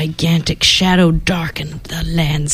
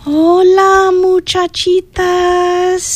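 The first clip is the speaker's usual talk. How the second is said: suave Chihuahua voice; 10 semitones higher, much slower than usual. Acted.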